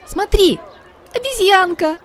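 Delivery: put-on delighted little girl kitten; excited exclaim. A narrator's reading. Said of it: "воскликнула Китти". (восторженно, намного выше)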